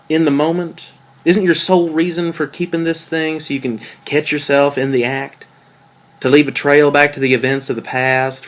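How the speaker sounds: mild accusing. Acted. Accusing girlfriend over her blog.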